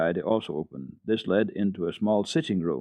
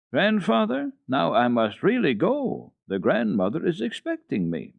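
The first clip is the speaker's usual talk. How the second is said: put-on high, pleading child's voice; a small girl begging her grandfather to let her go; little Heidi, high and eager; 8 semitones higher than usual. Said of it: "did not say five or six times".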